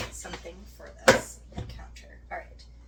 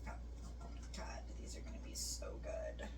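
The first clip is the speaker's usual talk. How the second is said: hushed whisper over food; 12 dB quieter than usual. Real, not acted. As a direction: breathe it out, barely voiced.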